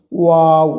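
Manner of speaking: ওয়াও from rounded lips, held loud; ওয়াও as a lengthened "waaw"; two-lip articulation. Shown as a demonstration. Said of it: "দুই ঠোঁট হইতে উচ্চারিত হয়".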